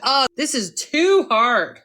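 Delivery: slow, drawn-out sigh of giving up; slow defeated complaint. Shown as a demonstration. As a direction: drag it out like it's all too much. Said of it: "I have to catch myself".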